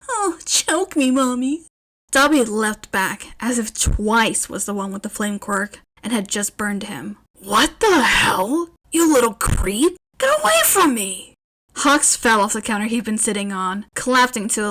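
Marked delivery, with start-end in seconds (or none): 0.1-1.6 high, slow whimpering plea. A narrator's reading. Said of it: "let out a high whimper". 7.4-11.3 loud, rising, disgusted shout; startled yell. Acted. Startled character yelling at Twice.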